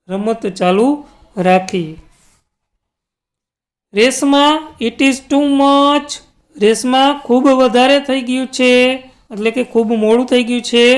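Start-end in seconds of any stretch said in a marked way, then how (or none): 3.9-10.8 mother calling out. Acted. Mother calls Reshma in from the balcony, lightly raised call. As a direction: call her name out like a mum at the balcony. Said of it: "shouted her mother".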